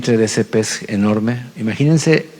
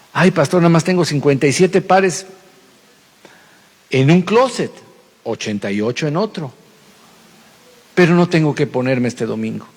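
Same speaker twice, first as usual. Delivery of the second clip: a fussy believer brushing off the pastor; vain churchgoer; 2 semitones higher than usual. Pretend. (feligresa vanidosa, voz aguda y quejosa)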